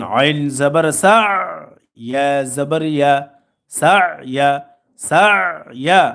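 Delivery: slow recitation with long-held letter names; spelling drill. Shown as a demonstration. Teacher modelling jazm examples for learners, slow drill recitation. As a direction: stretch each syllable deliberately, then give the joined word.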